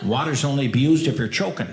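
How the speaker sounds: lightly voiced coach in a pre-game huddle; buffet coach dad. Dad briefing the family outside the buffet, coach voice. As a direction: lay down the rules like a coach, pitch lifting. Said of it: "my dad would turn into, like, a buffet coach".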